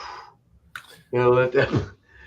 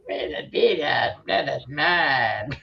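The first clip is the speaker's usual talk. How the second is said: skeleton voice. Retold or imitated. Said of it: "I like that skeleton voice".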